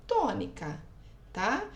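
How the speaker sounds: ordinary delivery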